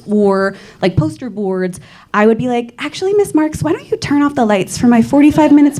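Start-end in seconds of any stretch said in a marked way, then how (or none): 2.8-5.8 theatrical schoolkid. Acted. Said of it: "I've always been very theatrical".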